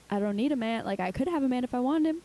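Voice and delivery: confidently insisting, rising pitch. Retold or imitated. Self-assured girl insisting she needs no man, confident. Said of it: "I love that confidence".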